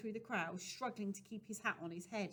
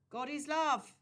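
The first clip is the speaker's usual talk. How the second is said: gentle preacher; 7 semitones higher, 9 dB louder than usual. Acted. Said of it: "said the doctor".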